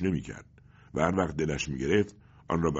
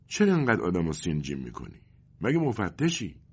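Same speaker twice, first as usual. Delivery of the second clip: good-humoured. Acted. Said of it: "پدر با خوشخلقی میگوید".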